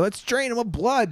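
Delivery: villain quote. Retold or imitated.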